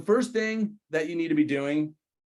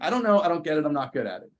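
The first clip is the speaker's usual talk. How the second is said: whiny helpless; 3 semitones higher, faster than usual. Retold or imitated. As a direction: play it helpless and exasperated. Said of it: "I was like".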